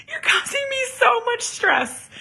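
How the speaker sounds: high, hammed-up wounded artist; mock stressed artist. Mom teasing her son about his critique. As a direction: whine it like a fragile diva. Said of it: "I'm like".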